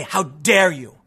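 low-pitched, scowling mock rebuke; mock Greta scowl. Activist insulting the people she needs to convince, mock scolding. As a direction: imitate an insulted scold, heavy on the outrage. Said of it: "scowl and be, and insult them and say".

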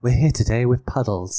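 put-on camp lady presenter; woman's voice. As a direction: introduce the show in a mock woman's voice. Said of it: "do a woman's voice".

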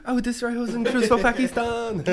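very high mock declaration with laughter; hammed-up high-pitched threat; imitating viral video. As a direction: parody the clip, barely holding back laughs. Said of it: "You know that video? It's like".

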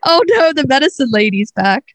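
high-starting mock dismay as a hen; dismayed chicken. Hen spotting the medicine lady, mock dismay. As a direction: start high like an alarmed hen, then settle. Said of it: "She's like".

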